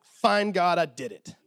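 a petulant prophet done with his task; sulky and fed up. Retold or imitated. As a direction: toss it off at God, annoyed. Jonah's sulky compliance.

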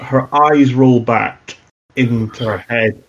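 ordinary talk

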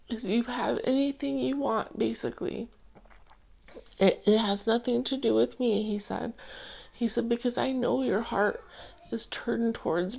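fighting back tears while remembering; choked up, overcome with feeling; near tears. Real, not acted. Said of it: "Now I am gonna start crying".

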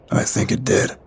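whispered answer. A narrator's reading. Yuri answers the narrator after the avalanche, whispering. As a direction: whisper it back to a comrade. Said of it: "Yuri whispered in answer".

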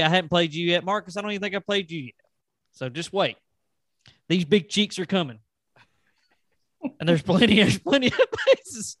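rising wrestler promo, building to laughing; wrestling promo. Pretend. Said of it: "I feel like I should cut a promo".

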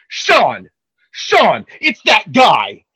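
building call for attention; mock alarmed call. Man in line alerting his friend, mock alarmed shout. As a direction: call out to a companion, rising to a shout. Retold alarmed calling out to companion.

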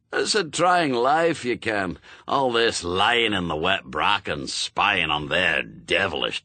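put-on brusque old witchfinder with a Scots burr; old Scots sergeant. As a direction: bark orders like a crusty sergeant. Shadwell grumbles.

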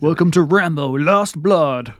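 slow announcer hype; drawn-out pay-per-view announcer; wrestling announcer. Pretend. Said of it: "sounds like a WWE pay-per-view".

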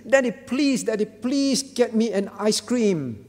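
put-on mildly pleading child, words stretched out; sad, frustrated plea. Sad child begs daddy for an ice cream, mock pleading. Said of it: "feel sad and frustrated and say".

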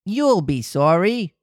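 slow sinister echo; lightly voiced cat echoing; cat repeating. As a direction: echo it slowly like a creepy cat. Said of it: "repeated the cat".

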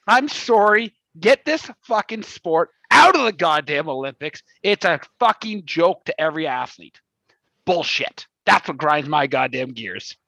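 a hammed-up angry rant, swearing at the sport; mock rant. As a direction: rant like an outraged sports fan, half in jest. Staged rant segment on skateboarding.

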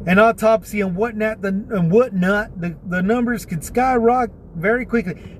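light rural Texas twang; hillbilly country accent. Retold or imitated. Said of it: "I'm sounding like a hillbilly country guy".

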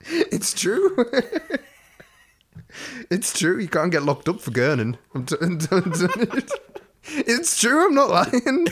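high, giggling insistence; laughing protest. Real, not acted. Defending her drugs joke to her co-host while laughing.

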